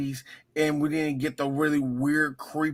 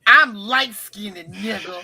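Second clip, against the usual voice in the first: angry; 5 semitones higher, 7 dB louder, slower than usual. Pretend. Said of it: "girl named Letitia mad as hell".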